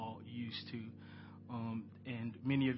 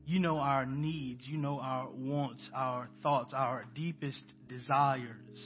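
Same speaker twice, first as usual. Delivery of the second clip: prayer. Acted. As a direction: pray aloud to the congregation, unhurried. Leads the church in prayer.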